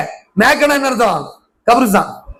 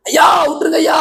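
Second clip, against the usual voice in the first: mock pleading; 5 semitones higher than usual. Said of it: "ஓடுறாரு".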